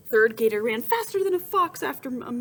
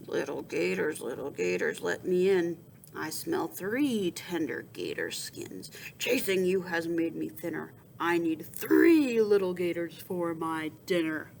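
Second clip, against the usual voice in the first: big bad boar; 3 semitones lower than usual. Boar voice at the door.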